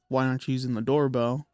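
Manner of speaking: ordinary talk, nothing marked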